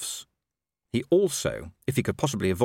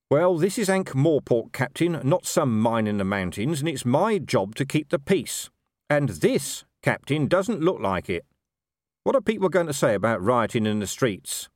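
lightly voiced commander, higher and insistent; exasperated watch commander; 5 semitones higher than usual. Commander telling his captain it's his job to keep peace, exasperated. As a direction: press the point with mounting exasperation.

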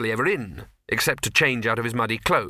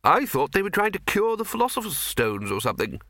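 Arch-Chancellor voice; 8 semitones higher than usual. Acted.

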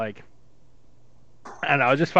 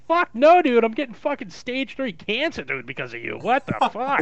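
mock outburst. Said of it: "I'm like".

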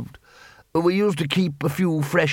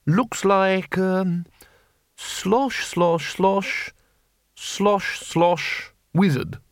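lightly raised, bumbling wizard voice; flustered Ridcully; 6 semitones higher, much slower than usual. A narrator's reading. The Arch-Chancellor to the patrician, a lightly voiced bumbling wizard. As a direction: stammer like a confused old wizard.

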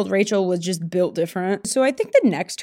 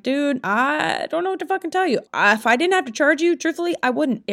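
exasperated server; 6 semitones higher than usual. Retold or imitated. Exasperated reply to angry customer.

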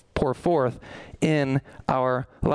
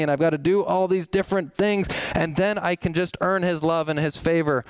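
higher, whiny run through a list of duties; mock legalist; 3 semitones higher than usual. Preacher mocking a legalist to his congregation, higher and whiny. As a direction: tick off the chores like a fussy legalist. Preacher mocks works-based believers.

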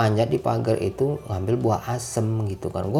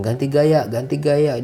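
imitated bossy photographer; 4 semitones higher, 5 dB louder than usual. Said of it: "Dia kayak fotografer gitu banget".

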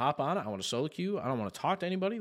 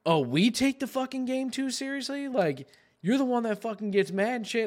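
high-pitched, imitating friends' indignant comeback; mock incredulous friends; 8 semitones higher than usual. Friends razzing him about who gets mad, mock incredulous. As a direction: throw it back in mock disbelief, pitched up. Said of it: "they all start laughing, being like".

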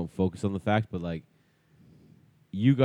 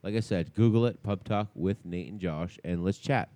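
softer radio-host voicemail; voicemail message; 4 dB quieter than usual. Acted.

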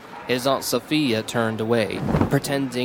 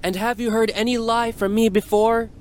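exclaiming; 10 semitones higher than usual. A narrator's reading. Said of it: "the Prophet exclaimed".

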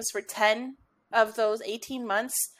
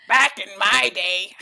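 back in my day rant; 3 semitones lower, 4 dB louder than usual. Pretend. Mock old person rant.

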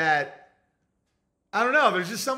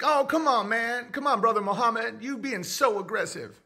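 higher, coaxing voice; calming Brother Muhammad, raised and coaxing; mock pleading friend; 5 semitones higher than usual. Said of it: "And I'd be like".

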